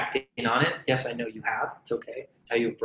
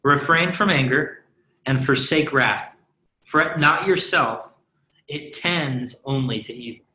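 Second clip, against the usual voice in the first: scripture reading. Shown as a demonstration. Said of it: "You want me to just read it all again?".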